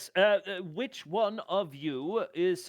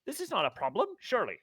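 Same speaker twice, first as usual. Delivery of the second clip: higher, smooth talking-down; lightly voiced glib negotiator; smooth persuader; 4 semitones higher than usual. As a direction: talk them out of trouble, a bit high and slick. PC persuades the contractor.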